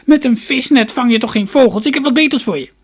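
put-on high, loud cackling old woman; high-pitched crone in full voice. A narrator's reading. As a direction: cackle it out like an excited storybook crone. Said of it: "kakelde de oude vrouw".

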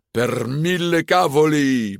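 high-pitched, exasperated bellow; angry roar. A narrator's reading. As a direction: roar it like a furious curse. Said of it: "brulde Ercole".

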